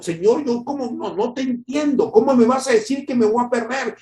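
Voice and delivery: high, desperate pleading voice; pleading Amasías. Acted. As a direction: cry out to the Lord in disbelief. (súplica desesperada en voz alta)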